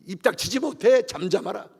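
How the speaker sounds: sharp retold telling-off; acted scolding. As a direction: order him to hush, as an imitated bystander. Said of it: "바디메오를 꾸짖어요".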